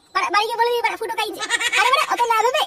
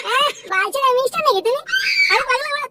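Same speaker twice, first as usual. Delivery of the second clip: laughing taunt. Real, not acted. Friend mocks the boast.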